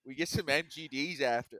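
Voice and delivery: loud mock Baltimore accent; hammed-up Baltimore local, starting loud. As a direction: put on a rough Baltimore accent. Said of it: "Baltimore accent you've got there".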